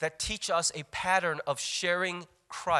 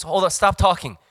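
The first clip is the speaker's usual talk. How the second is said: eager seeker; 4 semitones higher, 9 dB louder than usual. Retold or imitated. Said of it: "this person goes".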